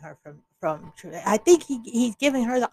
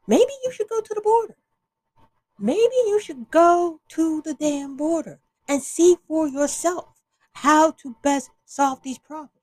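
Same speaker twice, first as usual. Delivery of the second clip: higher, louder sarcastic advice; mock advice; 5 semitones higher, 3 dB louder than usual. Real, not acted. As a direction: jab at her with sarcasm. Telling Kamala to go.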